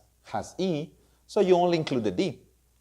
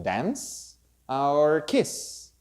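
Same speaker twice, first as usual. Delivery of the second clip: "dance or kiss" slow, hissing final s; slow demo; much slower than usual. Shown as a demonstration. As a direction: stretch the s at the end of "kiss". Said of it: "the sound of the letter S".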